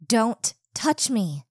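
slow, firm, loud warning; angry warning. Acted. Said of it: "I said".

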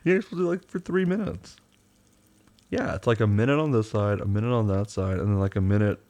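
talking through toothpaste foam; brushing teeth. Real, not acted. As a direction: mouth full of toothpaste. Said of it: "mouthful of toothpaste".

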